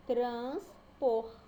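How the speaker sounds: "transpor" in two punched beats, trans, por; split into syllables. Shown as a demonstration. Teacher showing a two-syllable word, "transpor" split apart. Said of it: "Quando a gente vai separar".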